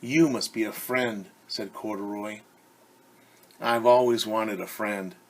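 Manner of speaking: lively storybook read-aloud; reading to children. Acted. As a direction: read it like story time for kids. Reads picture book to children.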